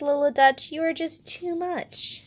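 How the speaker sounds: gently amused storybook bear; fond, smiling. Acted. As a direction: lightly tease a little one with affection. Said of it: "Bear smiles and says".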